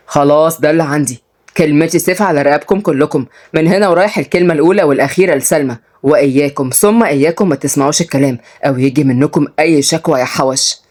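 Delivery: lightly voiced authoritative older man; stern father. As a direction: lay down the law to the children. Voices Fouad laying down law. (أب حازم بيدي أوامر)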